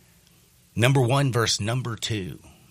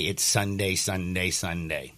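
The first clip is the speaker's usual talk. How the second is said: fading announcer echo; 3 semitones lower, 4 dB quieter, slower than usual. Pretend. Fading announcer-style repetition.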